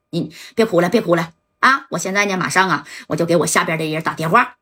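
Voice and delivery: lightly voiced big shot, calm and reassuring; a hint of a smooth patron calming her down; composed boss soothing lover. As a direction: boss on the phone comforting his crying ex.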